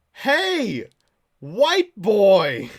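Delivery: very loud, high mock yell; escalating call-out. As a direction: yell after someone who ignores you. Acting out an escalating repeated message.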